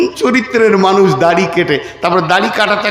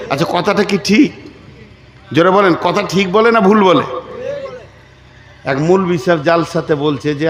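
usual speaking voice

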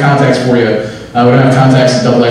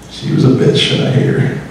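hushed, spiteful confession; whisper; 4 dB quieter than usual. Acted. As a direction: whisper it like a nasty secret. Confides hatred after waitress bit.

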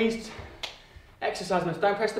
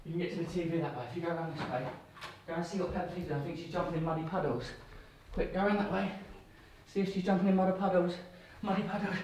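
soft coaxing; 3 semitones lower, 8 dB quieter, faster than usual. Real, not acted. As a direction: hush and coax softly. Coaxing toddler to Peppa Pig.

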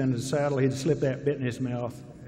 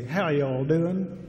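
slow Southern drawled greeting; drawn-out Southern accent; slower than usual. Shown as a demonstration. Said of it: "keep this continuation of the Southern accent".

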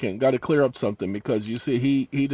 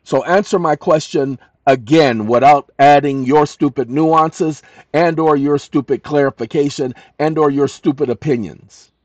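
angry dictation; 6 dB louder than usual. Real, not acted. Angrily dictating demand to AI.

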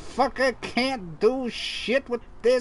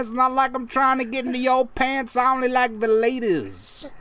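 Cosby impression. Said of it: "Bill Cosby freaks me".

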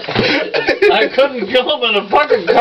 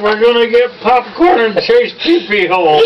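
shouted through laughter; laughing shout. Retold or imitated. Telling friends the plan, laughing while yelling. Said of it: "I said".

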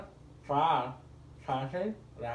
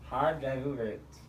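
mouthpiece in mouth; slower than usual. Real, not acted. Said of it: "One more time".

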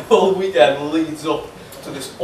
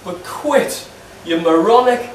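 put-on broad Geordie accent, higher and exasperated; 4 semitones higher than usual. Angry fan text to Shola in a broad Geordie accent. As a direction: keep the thick Geordie accent, nagging the striker. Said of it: "in my strongest Geordie accent".

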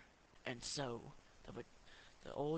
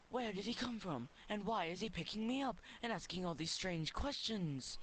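higher, puzzled little potato voice; talking vegetable; 7 semitones higher, 3 dB louder than usual. Acted. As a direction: wonder aloud like a bewildered potato. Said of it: "the potato thought to himself".

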